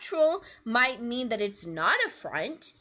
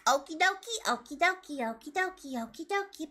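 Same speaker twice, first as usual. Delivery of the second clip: fading sing-song; 4 semitones higher than usual. Pretend. Sign-off fading out.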